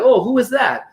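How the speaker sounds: high-pitched, intrigued double take; acted pleasant surprise, pitched high; surprised curiosity. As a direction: perk up at a familiar sound behind you. Acts out recognising a familiar accent.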